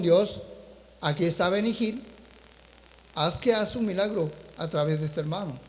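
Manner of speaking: soft, low retold silent prayer; inward prayer. Preacher recalls praying to God in his heart, hushed inward prayer. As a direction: pray quietly under your voice, as if remembered. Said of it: "yo dije en mi corazón".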